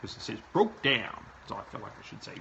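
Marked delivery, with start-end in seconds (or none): 0.5-1.2 lightly put-on Swedish lilt; playful Swedish-accented quote; mock Swedish accent. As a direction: echo it with a mock-Swedish bounce. Repeats phrase in mock accent.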